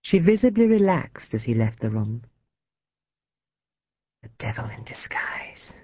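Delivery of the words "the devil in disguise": whispered mutter under the breath. A narrator's reading. Mother alone once her son has left, muttering in a whisper. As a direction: mutter it almost without voice. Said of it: "she muttered".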